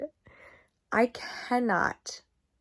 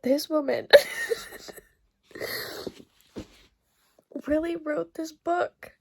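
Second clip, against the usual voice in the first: whisper; 5 semitones higher than usual. Real, not acted. Disbelief at the author's choice.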